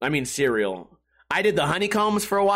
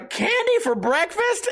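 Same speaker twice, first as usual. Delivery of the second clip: put-on high, slow, wide-eyed kid asking; a happy kid in the skit gasps at candy for breakfast; excited kid; 13 semitones higher, slower than usual. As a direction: play a thrilled little kid hearing great news. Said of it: "where they go".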